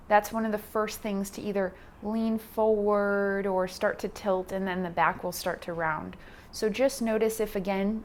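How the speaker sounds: calm instruction with long pauses between cues; guided meditation. Acted. Yoga teacher guiding beginners through posture and breath, guided meditation. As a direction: talk them through it, unhurried, leaving space.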